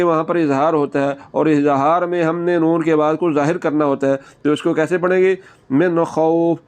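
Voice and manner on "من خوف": من خوف with the noon said clearly, no nasal hold; clear noon, no ghunna. Shown as a demonstration. Teacher shows izhar in من خوف, plain clear noon. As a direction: say من خوف without humming the noon. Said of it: "یہاں پر ہم نے غنہ نہیں کرنا".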